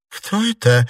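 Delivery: high, loud frightened question. A narrator's reading. Щергина, frightened, asks who is there in a high loud cry. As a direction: ask in sudden fright. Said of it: "испуганно спросила Щергина".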